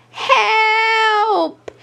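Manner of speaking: high, panicked call for help; frightened cry. Acted. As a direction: cry out, stuck and scared. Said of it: "Daisy cried".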